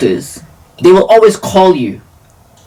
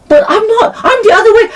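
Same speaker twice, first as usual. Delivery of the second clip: pitched high, indignant; squeaky retold objection; high protest; much faster than usual. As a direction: insist you're the other way.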